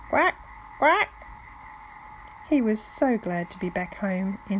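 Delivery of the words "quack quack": high, loud happy quacks; loud quacking. A narrator's reading. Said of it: "quacking loudly".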